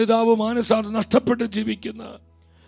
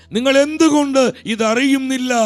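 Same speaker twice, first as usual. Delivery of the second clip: the Lord's question; 4 semitones higher, 5 dB louder than usual. Acted. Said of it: "കർത്താവാ ചോദിക്കുന്നത്".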